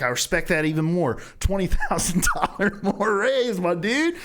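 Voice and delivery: high-pitched, hammed-up generosity; playing a thrilled executive; mock excited boss. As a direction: announce the raise in a slow, rising gush. Imagined boss excitedly awarding raise.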